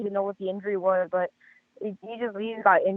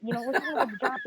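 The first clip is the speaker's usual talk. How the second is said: usual speaking voice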